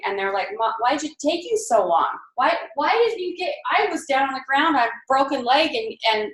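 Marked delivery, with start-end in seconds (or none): 0.6-5.7 mock upset child, higher pitched; lightly voiced complaint of a hurt kid; crying child. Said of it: "they're crying".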